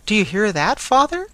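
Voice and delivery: loud, rising, overjoyed question; ecstatic cry. A narrator's reading. Blind girl shares news with her father, ecstatic cry. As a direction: cry it out in delight, pitch soaring. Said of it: "cried the blind girl in ecstasy".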